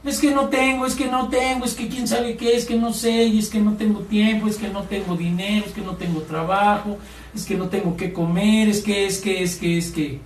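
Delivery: sing-song grumbling that winds down; mock complaining. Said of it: "¿por qué te quejas?".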